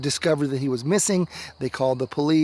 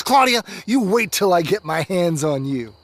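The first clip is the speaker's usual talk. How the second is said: upset; 2 semitones higher, 5 dB louder than usual. Acted. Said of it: "He gets upset at some point and says".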